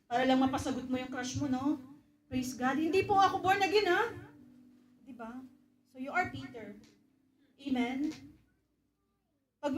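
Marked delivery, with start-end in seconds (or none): 2.8-4.1 high, quick eager disclaimer; hasty denial. Acted. Suitor quickly denying his faith to his crush, high hasty voice. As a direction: rush to deny it, pitched up.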